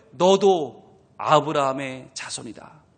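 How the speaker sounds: slow, low and tender; slow tender Jesus. Acted. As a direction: say it gently like a loving father. (천천히 낮고 다정하게)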